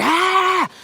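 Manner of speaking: high-pitched mock whine of moaning critics; mimicking angry Gambians in a high whiny voice; mocking angry commenters. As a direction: parody the complainers, pitch way up. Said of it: "a lot of them so angry".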